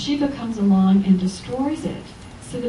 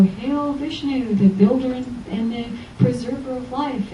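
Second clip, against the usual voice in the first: mock reverent praise; 3 semitones higher than usual. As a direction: chant it like a mock prayer. Mock hymn to Vishnu.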